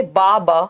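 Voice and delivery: बा said twice as separate drawn-out syllables; syllable-by-syllable demo of बा; babbling syllables. Shown as a demonstration. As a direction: sound out बा, बा one syllable at a time. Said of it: "single syllable word आप use कर रहे हैं".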